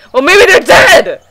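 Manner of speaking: high, slow put-on voice; character voice. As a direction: read it as an odd character, slowly. Reading a character line aloud.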